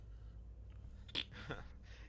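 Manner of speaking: acted chuckle. Pirate King amused by the boy's question, soft chuckle. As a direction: chuckle softly to yourself, in character. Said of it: "He just chuckles and he goes".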